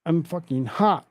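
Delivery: mocking the screaming woman loudly; mock crazed yell. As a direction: ham up the airport lady's rant. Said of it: "Woman loses her absolute mind".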